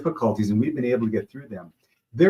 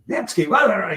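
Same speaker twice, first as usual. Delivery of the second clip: high-pitched mock yelling; retold coach scream; 11 semitones higher than usual. Coach screaming at his player on the field, mock yell. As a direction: imitate a coach yelling, voice jumping up. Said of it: "my coach starts screaming at me".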